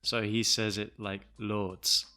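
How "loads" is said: imitated northern English "lords" vowel; northern English accent. Shown as a demonstration. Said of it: "the speaker is from the north of England".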